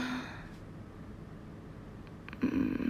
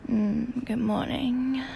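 sleepy voice; slower than usual. Real, not acted. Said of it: "I got a serious case of the sleepy voices".

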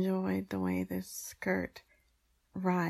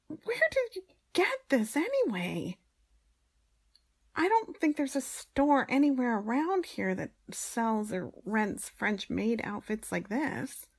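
indignant; 4 semitones higher, 3 dB louder than usual. Acted. Flustered complaint about the outfit.

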